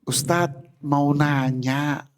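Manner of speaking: lightly voiced gentle wife asking the ustadz; mock-sweet slow request; sweet polite ask. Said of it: "ngomongnya begitu nggak".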